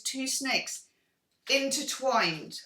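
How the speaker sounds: slow, hissing snake impression. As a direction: stretch the s sounds like a lazy snake. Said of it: "That was my snake impression".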